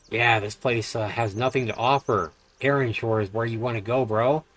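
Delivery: a hint of a starry-eyed islander; NPC voice. Voicing NPC dialogue.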